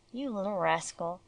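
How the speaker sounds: tender teasing of a beloved pet; lovingly. Acted. Master to his rescued dog, gently loving. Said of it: "he said lovingly".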